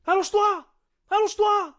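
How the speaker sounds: loud, high shouted command; barked police order. Retold or imitated. Raiding cop shouting at him to lie down, loud.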